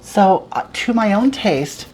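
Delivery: campy homely witch host; put-on cooking show hag; Hagatha character voice.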